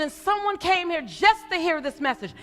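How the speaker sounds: rhythmic building preacher cadence; stirring the crowd in rising repeated calls; preaching. Acted. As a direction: preach it, repeating each call. Closing preacher run.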